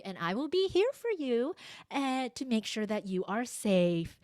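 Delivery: soothing, lilting parent voice; reassuring tone. Retold or imitated. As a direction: reassure a screaming child, calmly. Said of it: "tone of voice".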